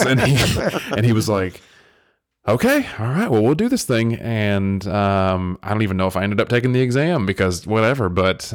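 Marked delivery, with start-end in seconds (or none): 2.5-4.1 resigned professor. Retold or imitated. Professor gives in, voiced.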